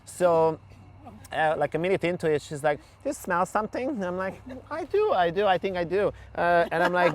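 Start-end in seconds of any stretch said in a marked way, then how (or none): 3.0-3.9 lightly voiced client, higher pitch; a higher-pitched, questioning retelling of the client; client's wondering question. Retold client asking, sniffing worry. 4.7-6.1 high-pitched retold agreement. Nervous retold reply to client.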